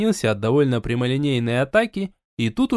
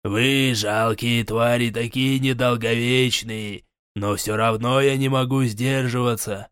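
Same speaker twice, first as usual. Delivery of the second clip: cruel forest king; 3 semitones lower, slower than usual. Acted.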